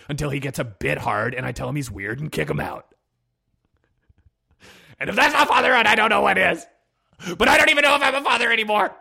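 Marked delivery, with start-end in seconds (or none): 5.0-8.9 mock dramatic. Mock dramatic podcast intro monologue.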